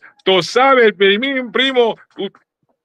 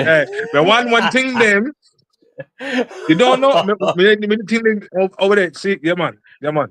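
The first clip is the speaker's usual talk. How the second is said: Belizean Creole. Pretend. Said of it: "if you could do one for Belize".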